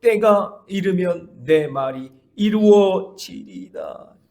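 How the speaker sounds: loud, very slow proclamation; emphatic scripture. Shown as a demonstration. Pastor proclaiming the promise to the church, slow and loud. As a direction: proclaim each word slowly. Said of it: "거기 밑줄을 쳐야 돼요".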